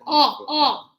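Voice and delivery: oh, oh said loudly; isolated stressed syllable. Shown as a demonstration. Teacher isolating the stressed O sound for the class. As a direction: pull out the stressed oh. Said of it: "the strength is here at the beginning".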